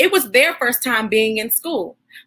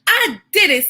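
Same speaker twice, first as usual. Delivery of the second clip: higher and brighter, triumphant; proud boy; 5 semitones higher than usual. Acted. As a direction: celebrate the jump. Boy cheers his success.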